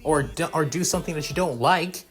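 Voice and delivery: acted boyish protest; earnest protest. A narrator's reading. Boy stands up to bully.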